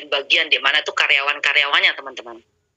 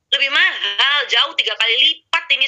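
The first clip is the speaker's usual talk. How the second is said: high, stunned protest over the price; astonished; 9 semitones higher than usual. Retold or imitated. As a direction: pitch it up in disbelief. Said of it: "saya tuh malah tercengang-cengang". (kaget, nada tinggi)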